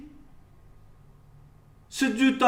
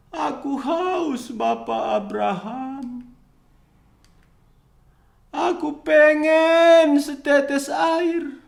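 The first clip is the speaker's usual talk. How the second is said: desperate pleading; 3 semitones higher, 5 dB louder than usual. Acted. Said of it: "Dia berkata".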